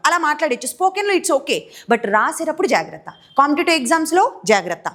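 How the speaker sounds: usual speaking voice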